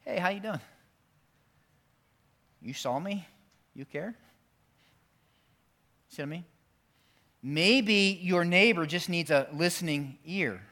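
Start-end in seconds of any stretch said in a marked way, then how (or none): 0.1-4.2 caring check-in. Retold or imitated. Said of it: "somebody say".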